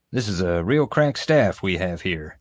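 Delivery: understated dry sarcasm; sarcastic. Acted. Boss sizing up his bumbling staff, sarcastically. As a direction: praise them while meaning the opposite. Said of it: "J J's sarcasm".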